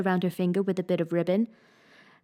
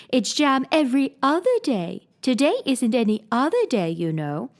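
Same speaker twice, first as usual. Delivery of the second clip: lightly voiced queen, insisting; White Queen; 4 semitones higher than usual. Queen to Alice, lightly voiced fussy queen.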